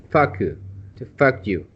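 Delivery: FUCK YOU as the slip for focused, short open vowel; mispronounced focused. Shown as a demonstration. Teacher warning a student about the slip, mispronunciation demo. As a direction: demonstrate how a careless focused becomes FUCK YOU. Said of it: "it sounds similar to".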